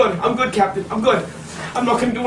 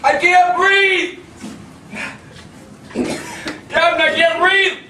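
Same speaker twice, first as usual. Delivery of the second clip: desperate pleading; 4 semitones higher, slower than usual. Real, not acted. Inmate pleading while restrained.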